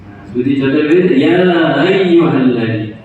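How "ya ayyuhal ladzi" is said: "Ya ayyuhal" drawn out with the hamzah softened into a glide; eased hamzah. Shown as a demonstration. Teacher shows a tashil mistake, "Ya ayyuhal" with softened hamzah. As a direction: glide from "Ya" into "ayyuhal" without a glottal stop. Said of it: "Dia mentashilkan baca".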